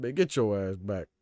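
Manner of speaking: slow imitation of a Southern country accent. Showing how the coach said it, slow country accent. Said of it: "The way he said it".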